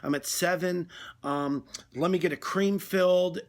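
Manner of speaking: mock donut anxiety, stammering and dithering; flustered donut orderer. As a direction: play a customer cracking under pressure at the counter. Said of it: "they start strong".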